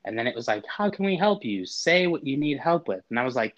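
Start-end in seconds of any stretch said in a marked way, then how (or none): 0.7-3.0 high, chirpy automated phone voice; robot phone voice. Retold or imitated. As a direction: sound like a cheery phone robot.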